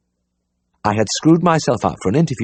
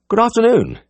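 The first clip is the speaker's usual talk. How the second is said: high, posh lady's greeting; plummy upper-class hello; loud well-bred voice. A narrator's reading. Society girl at the door, greeting the vet in a loud well-bred voice. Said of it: "she said in a loud, well-bred voice".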